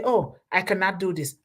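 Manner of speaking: mild mock defeatism; defeatist attitude. Speaker mimicking the wrong spirit for a task, mildly defeatist. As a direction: lightly imitate someone giving up. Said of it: "that's not the spirit".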